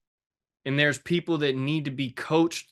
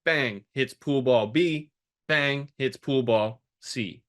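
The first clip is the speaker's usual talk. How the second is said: slow sound effects; slower than usual. Shown as a demonstration. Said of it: "which is pool ball A".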